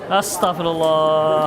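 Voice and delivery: slow, drawn-out exasperated astagfirullah; exasperated sigh. Real, not acted. Preacher exasperated at a repeated question, drawn out. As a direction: stretch it out in mock despair. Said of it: "Minumlah saya dulu untuk mendinginkan".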